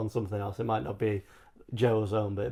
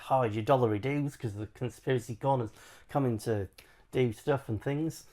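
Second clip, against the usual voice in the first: put-on Australian accent. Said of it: "I'll do an Australian accent".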